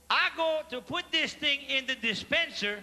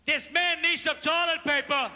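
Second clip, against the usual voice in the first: loud announcement; 4 semitones higher, 4 dB louder than usual. Retold or imitated. Cashier announces to whole restaurant.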